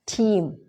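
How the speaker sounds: "Team" with a crisp aspirated t. Shown as a demonstration. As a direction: say "Team", tongue behind the teeth. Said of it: "it sound like a team".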